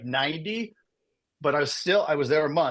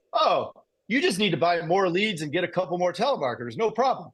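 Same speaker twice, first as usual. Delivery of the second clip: higher-pitched, casual reassurance; breezy calm; 3 semitones higher than usual. Retold or imitated. Business friend reassuring him about buying more leads, breezily calm. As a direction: imitate someone calmly waving it off. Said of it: "very quickly and very calmly".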